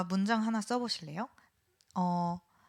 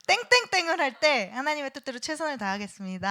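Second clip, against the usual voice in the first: punchy opening, quick run through the pledge; loud read-aloud; 4 semitones higher, 4 dB louder than usual. Shown as a demonstration. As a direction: model it loud and high at first, then brisk. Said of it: "대신 큰 소리로".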